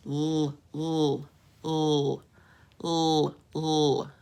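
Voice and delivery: long held "l" sound, repeated with gaps; isolated L sound. Shown as a demonstration. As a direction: sound out "l" as a consonant, not the letter name. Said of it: "what sound do you hear at the beginning".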